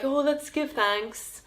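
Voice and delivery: lightly put-on Canadian accent; a not-very-good attempt at a Canadian accent; mock Canadian prime minister accent. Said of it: "That's my Canadian accent".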